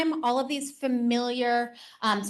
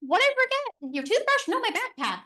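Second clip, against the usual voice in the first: playful mock confusion, pitch jumping higher; mock forgetful parent; 10 semitones higher than usual. Parent pretending to forget so the child blends backpack, playful. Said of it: "maybe be like".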